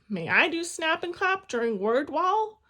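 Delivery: high, loud eager asking. A narrator's reading. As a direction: beg to help, bursting with energy. Eager girl asks teacher.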